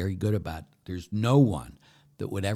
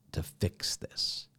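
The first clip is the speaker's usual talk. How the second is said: whisper; 4 dB quieter, much slower than usual. Real, not acted. Prayer, whispered.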